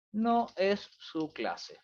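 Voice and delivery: very slow, word by word; typing aloud. Real, not acted. Teacher typing a message for students, slowly word by word. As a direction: stretch each word as you type it. Speaking the words while typing them.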